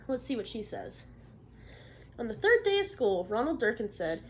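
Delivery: lively read-aloud for a class; storybook narration; story reading to children. Acted. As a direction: tell the story to young listeners. Teacher reads picture book aloud.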